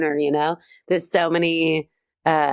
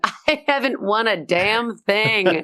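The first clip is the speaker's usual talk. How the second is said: mock self-pity; 5 semitones higher than usual. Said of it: "I really go through life going".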